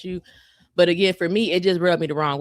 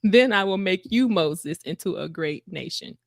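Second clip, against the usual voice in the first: scripture reading. Acted. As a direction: read God's words with gravity.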